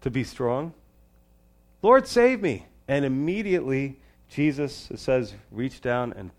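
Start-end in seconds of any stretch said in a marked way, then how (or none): 1.8-2.7 loud prayer cry. Shown as a demonstration. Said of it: "That's why your prayers don't have to be very long".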